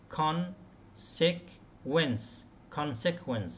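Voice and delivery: consequence stressed on CON, slow. Shown as a demonstration. Teacher modelling CON-se-quence for the class. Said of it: "الاسترس على المقطع الأول".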